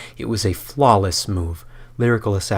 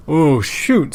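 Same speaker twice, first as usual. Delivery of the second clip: mild oops; 7 semitones higher, 7 dB louder than usual. Acted. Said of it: "spews the stream's phantom".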